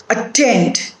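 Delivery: attend with weight on TEND; weak at, strong tend in attend; stress on second syllable. Shown as a demonstration. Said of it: "put the stress on the root word".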